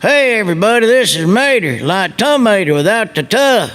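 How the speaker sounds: lightly voiced hillbilly tow truck; folksy cheer like a country tow truck; Mater voice. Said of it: "This is what it sounded like".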